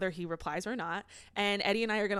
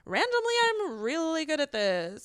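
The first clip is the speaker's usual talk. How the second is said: mocking Lindsay; 3 semitones higher, slower than usual.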